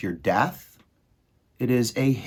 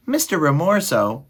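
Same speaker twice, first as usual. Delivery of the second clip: high-pitched timid mouse appeal; small mouse; 8 semitones higher, 4 dB louder than usual. A narrator's reading. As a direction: address the rat as a little mouse. Frightened mouse addresses the rat.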